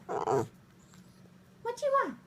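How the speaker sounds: high, very slow sing-song question. Real, not acted. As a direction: stretch it out high to the dog. Asking dog, drawn out.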